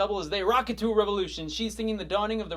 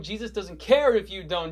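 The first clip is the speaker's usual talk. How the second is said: louder, punched CARE; building refrain; 7 dB louder than usual. Acted. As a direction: raise the volume on the repeat. Second take, refrain building up.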